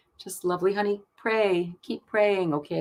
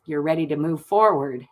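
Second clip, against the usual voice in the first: normal talking voice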